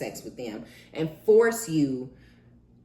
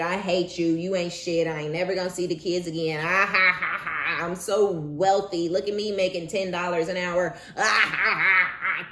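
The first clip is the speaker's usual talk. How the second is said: mock spiteful ex; 3 semitones higher, 4 dB louder than usual. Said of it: "the next minute".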